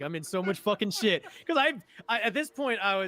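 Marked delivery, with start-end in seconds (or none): 0.0-1.2 put-on panicked voice. Retelling getting a call about a forgotten IOTV: retelling own panic. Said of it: "I'm panicking".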